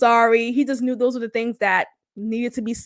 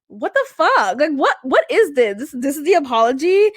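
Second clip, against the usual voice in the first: incredulous. Retold or imitated. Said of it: "reads to me as".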